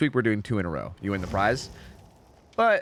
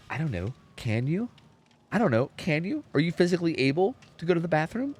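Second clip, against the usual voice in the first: pedantic teacher; 4 semitones higher than usual. Retold or imitated. English teacher corrects pupil's grammar, lightly mocked pedantry. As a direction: challenge the pupil with a mock-puzzled question. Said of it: "going all English teacher on me".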